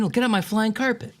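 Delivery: high, playful Aladdin; lightly voiced Aladdin. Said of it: "All right, Jasmine".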